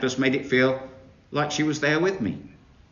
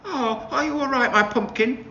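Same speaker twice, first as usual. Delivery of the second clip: lightly voiced fussing mother, higher; worried mama; 11 semitones higher than usual. A narrator's reading. Mama bursting in on her hurting daughter. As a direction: hurry in with gentle concern. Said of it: "said Mama".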